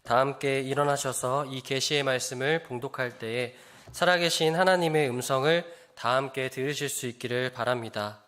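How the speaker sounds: usual speaking voice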